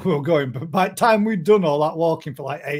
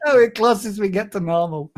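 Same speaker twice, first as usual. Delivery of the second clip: laughing while repeating; 3 semitones higher, 3 dB louder than usual. Real, not acted. Repeating listener message, amused.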